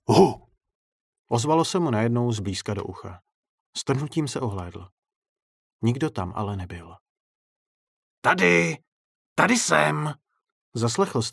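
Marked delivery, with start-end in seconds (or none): 0.1-0.5 sudden loud hoot; short, very loud burst; startling boo. A narrator's reading. Sudden scare close to the ear. 8.2-10.1 loud, high teasing call; raised look-here call. A narrator's reading. Clown calls from the dark balcony.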